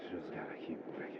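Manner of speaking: hushed, breathy under the breath; whispering. Acted. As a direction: whisper it to yourself. Character whispers to himself.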